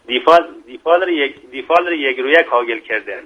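proverb in Mashhadi dialect; Mashhadi accent. Shown as a demonstration. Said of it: "مطلب دیگه ای با لهجهٔ شیرین".

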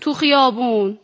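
put-on Persian with an Azeri Turkish accent; Ardabili Turkish accent. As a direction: play it with a light Ardabil accent. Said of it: "یه مقدارشو با لهجه بازی بکنید".

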